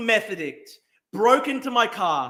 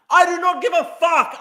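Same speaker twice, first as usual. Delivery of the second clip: loud, higher, furious outburst; furious shout; 6 semitones higher, 6 dB louder than usual. Real, not acted. Angry streamer shouting at chat about wallet thieves. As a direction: yell your contempt at the chat.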